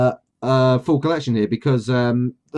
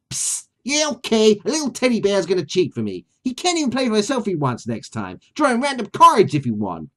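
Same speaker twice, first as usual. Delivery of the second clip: high Brooklyn parrot voice; wiseguy parrot with a Brooklyn accent; 6 semitones higher than usual. Acted. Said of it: "more Tony Soprano than Iago".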